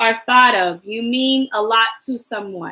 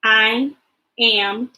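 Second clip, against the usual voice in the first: choral reading; slower than usual. Shown as a demonstration.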